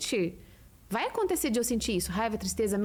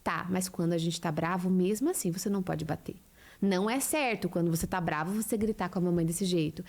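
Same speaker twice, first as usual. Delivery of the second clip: put-on lower, calm mother explaining anger to her child; gentle teaching mother; 4 semitones lower than usual. Mother calmly teaching her angry child to breathe, lower voice. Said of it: "a gente conseguir falar assim".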